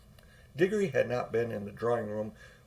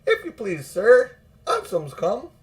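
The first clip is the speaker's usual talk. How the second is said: high, loud and slow announcement; excited housemaid; 9 semitones higher, 8 dB louder than usual. A narrator's reading. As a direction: call it through the door, breathless with news. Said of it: "put her head in the door and said".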